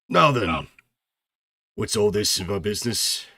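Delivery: innkeeper voice. Acted. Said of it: "Aussie says".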